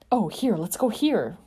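bright eager call; exclaiming. Acted. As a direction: point it out excitedly. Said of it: "Peter exclaimed".

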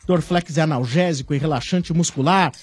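upbeat commercial read. Acted. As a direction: sell it like a radio ad. Live sponsor ad read.

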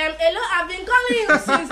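phone-call complaint in Akwa Ibom English; Akwa Ibom accent. Shown as a demonstration. Calling someone who won't answer, Akwa Ibom accent. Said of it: "An Akwa Ibom accent, a normal typical".

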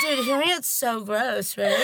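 slow, talking while chewing; mouth full. Real, not acted. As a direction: speak through a mouthful. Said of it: "let me finish chewing".

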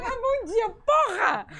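half-laughing playful yell; mock exasperated shout. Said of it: "Aí ele senta pra mim".

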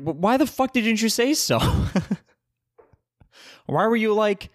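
high, incredulous mock exasperation; exasperated disbelief. To the friend who wanted to chill, high and exasperated. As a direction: throw up your hands in disbelief. Friend finally names his plan.

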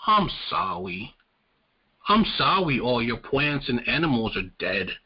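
sarcastically imitating a hollow corporate apology; mock apology. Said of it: "Their guys just was being like".

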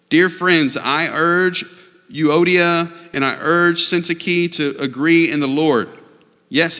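measured, projected Bible reading; scripture reading. Acted. Pastor reads Paul's letter to the church, scripture reading. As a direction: read it out clearly to a congregation.

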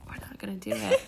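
whispered playful refusal. Real, not acted. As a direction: breathe it out as a tease.

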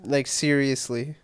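wheezy, slow voice; wheezing through the words. Real, not acted. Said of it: "Oh, you're wheezing".

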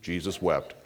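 "Jesus wept." with an airy laugh after; chuckling. Real, not acted. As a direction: laugh at your own joke. Laughs at shortest verse joke.

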